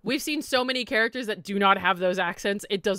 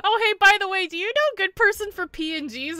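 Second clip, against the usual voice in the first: imitating a fan; 9 semitones higher, 5 dB louder than usual. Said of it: "somebody message me that was just like".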